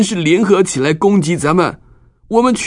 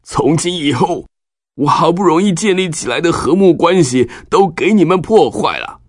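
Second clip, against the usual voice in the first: sad; 10 semitones higher than usual. Acted. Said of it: "难过地对西缅和利未说".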